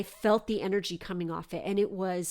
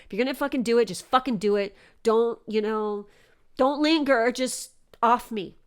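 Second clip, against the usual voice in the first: defiant resignation; 4 dB louder than usual. Retold or imitated. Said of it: "that's what was going through my head".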